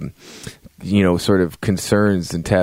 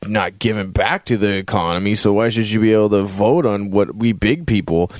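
put-on drunk voice. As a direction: lecture them like a drunk at the bar. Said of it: "And he's all drunk".

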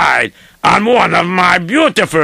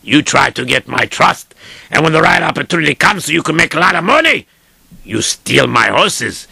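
accusing master; 4 semitones lower than usual. Acted.

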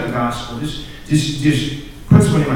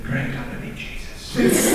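laughing dread; 7 dB quieter, slower than usual. Retold or imitated. Retold fearful thought, laughing.

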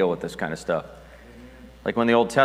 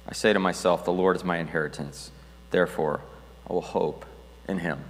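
scripture reading; 2 semitones lower than usual. Acted. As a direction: let the words settle gently. Reads verses of hope.

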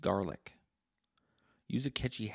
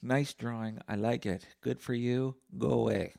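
dismissive dad; 4 semitones higher than usual. Retold or imitated. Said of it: "Like my dad did".

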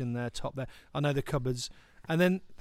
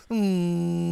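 humming chocolate. Pretend. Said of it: "he's not even talking. It's more like a".

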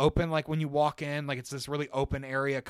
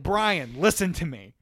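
firm, raised retold appeal; urgent plea; 2 semitones higher, 4 dB louder than usual. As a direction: stop him with short, emphatic words. Retold pleading with friend.

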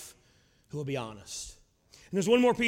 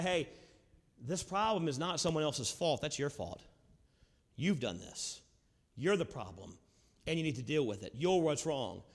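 quiet, lower, earnest rebuke; loving confrontation; 3 semitones lower, 4 dB quieter than usual. Retold or imitated. Friend confronting you quietly, earnest and soft. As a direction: tell them the hard truth softly. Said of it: "come to us and say".

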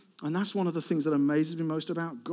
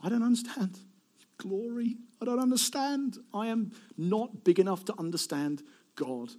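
awed worshipper; 5 semitones higher than usual. Acted. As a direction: confess it in acted awe, unhurried. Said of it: "for the worshipper to come and say".

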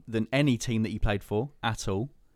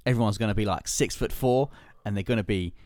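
put-on New Zealand accent; 4 dB louder than usual. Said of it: "That, that was my New Zealand accent".

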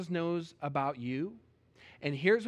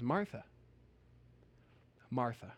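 soft, lower, gentle naming; calming voice; 5 semitones lower, 4 dB quieter than usual. Retold or imitated. Jesus calming an upset Martha, soft and gentle. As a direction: settle her down gently. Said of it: "in what I'm gonna assume was a very calming voice".

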